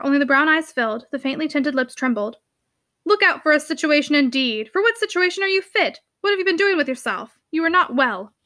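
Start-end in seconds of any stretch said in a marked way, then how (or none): 3.0-8.3 exasperated uncle. Acted. Uncle scolds niece in story.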